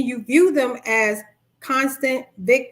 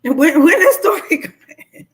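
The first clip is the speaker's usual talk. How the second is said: incredulous listener; 5 semitones higher, 8 dB louder, slower than usual. Retold or imitated. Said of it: "you sitting there looking like".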